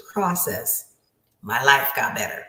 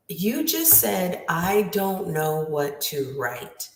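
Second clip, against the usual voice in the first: slow, deliberate teacher's explanation; spelling it out; 3 semitones higher, slower than usual. Retold or imitated. Teacher quoting confused student's words back, slowly spelling it out. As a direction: measure out each word for a confused pupil.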